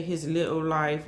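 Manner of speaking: rough attempt at a British accent; lightly put-on British pronunciation. Shown as a demonstration. Host showing how the spirit spoke, hesitant British accent. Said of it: "like how the British talk".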